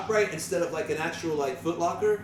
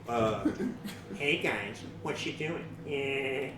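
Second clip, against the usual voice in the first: lower, softer Peter voice; Peter Griffin impression; 5 semitones lower, 8 dB quieter, much slower than usual. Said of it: "You wanna hear Family Guy?".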